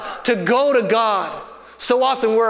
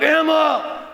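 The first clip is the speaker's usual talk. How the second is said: high, drawn-out fatherly summons; mock-stern parental call; dad voice; 6 semitones higher than usual. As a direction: play Dad calling his daughter to account. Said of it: "So in my dad voice".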